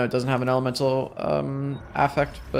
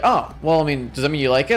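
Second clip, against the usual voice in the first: mock British accent; 3 dB louder, faster than usual. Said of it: "don't comment about that British accent".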